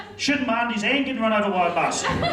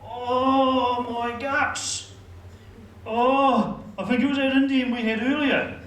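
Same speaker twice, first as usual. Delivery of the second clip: high, drawn-out groan through a bellyache; pained moaning; 5 semitones higher, much slower than usual. Acted. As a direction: moan it while your guts cramp. Acts out his stomach cramps.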